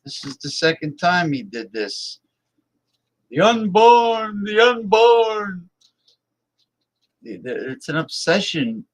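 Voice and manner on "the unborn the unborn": high, slow, drawn-out mock preacher cry; drawn-out mock wail of the unborn; mocking old zealot. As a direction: ham up the pious old extremist. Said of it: "he used to say".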